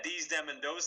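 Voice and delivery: "dese, dem, and those" with D for TH; "dese, dem" in Upper Peninsula style. Shown as a demonstration. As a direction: swap each TH for a hard D. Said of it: "doesn't have the T H sound".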